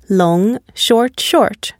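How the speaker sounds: stressed "Long", then two brief "short, short"; stress pattern demo. Shown as a demonstration. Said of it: "only one long and stressed syllable".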